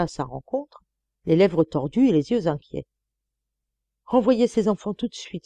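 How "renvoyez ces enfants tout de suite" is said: pleading. Acted. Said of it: "supplia sœur Angèle".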